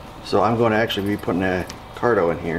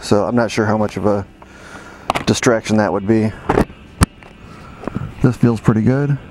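putting helmet on. Real, not acted. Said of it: "I put a mic inside the helmet".

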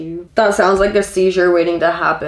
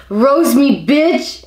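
playful shout; 4 semitones higher, much slower than usual. Real, not acted. Repeating it, louder and laughing.

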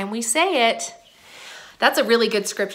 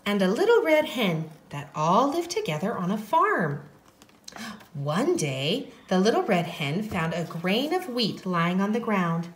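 soft, hushed storytelling; story narration; 5 dB quieter than usual. A narrator's reading. Teacher opens the Little Red Hen story, soft narration. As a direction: tell it gently to little ones.

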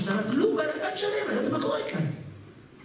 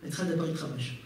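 imitating student; 4 semitones lower, 7 dB quieter, faster than usual. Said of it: "אומרת לי".

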